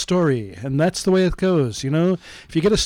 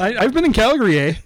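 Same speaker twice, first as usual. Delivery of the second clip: put-on light joking Canadian accent, slightly higher; 5 semitones higher, 3 dB louder, faster than usual. Cohost answers the email back in a mock Canadian accent. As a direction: play along as a Canadian with an eh. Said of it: "than mine is".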